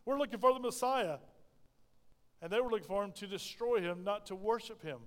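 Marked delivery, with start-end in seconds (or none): 0.1-1.2 mildly raised declaration, like men calling out. Retold or imitated. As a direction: call out the demand, lightly acted. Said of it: "six hundred men called out".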